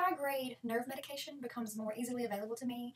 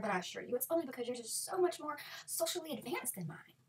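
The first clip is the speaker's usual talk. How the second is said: fake enthusiasm. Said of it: "very enthusiastically".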